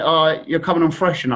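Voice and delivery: a hint of put-on street talk; mock street slang. Nervous fan greeting Frank Worthington on TV, in mild mock street slang. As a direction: lightly copy the street kids' slang. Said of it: "so I went".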